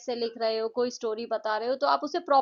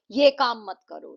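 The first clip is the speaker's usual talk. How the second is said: mildly angry command, a bit louder; raised-voice scolding, demonstrated; angry demo; 6 dB louder than usual. Shown as a demonstration. Teacher showing kids angry intonation, mildly angry. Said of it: "आप किसी पे गुस्सा कर रहे हो".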